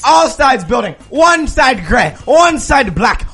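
put-on slow, emphatic German-accented list; mock German accent. Shop owner dictates colours, slow mock German accent. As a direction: count it out slowly in a bad German accent. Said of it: "I am a German man".

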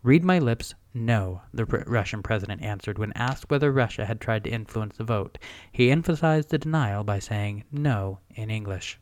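measured news-reading voice; smooth, even announcer delivery; soothing news announcer. Real, not acted. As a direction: read it out like a calm newscaster. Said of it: "your news announcer voice is very soothing".

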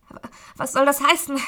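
stammering. Acted. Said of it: "stotterte ich".

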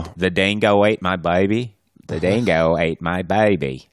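quoting a Seinfeld line in a bad accent; bad Australian accent. Cohost quoting Seinfeld, bad Australian accent. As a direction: say it badly on purpose. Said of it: "You wanna say the line really bad".

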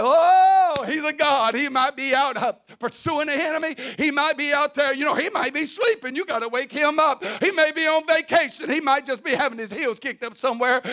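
mild sarcastic taunting; mocking. Elijah mocks the prophets of Baal, lightly sarcastic. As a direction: tease the false god with a smirk. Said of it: "Elijah got to mocking him".

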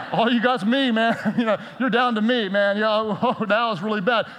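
chuckling through a teasing God voice; laughing mock God. Pastor laughing as God teases a praying believer. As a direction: laugh as you play God shrugging it off. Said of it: "imagine God up in heaven going".

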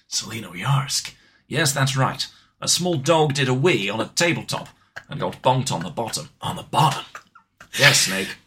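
lightly voiced military mission briefing; brief the agent, measured and matter-of-fact; a hint of a radio commander; Major Zero. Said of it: "I can do Major Zero. And so talking like this".

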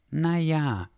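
high, drawn-out caveat; hesitant objection. A narrator's reading. Dachshund raising a doubt to his friend, hesitant. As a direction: stretch it out high, weighing things up. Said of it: "gab Dackel zu bedenken".

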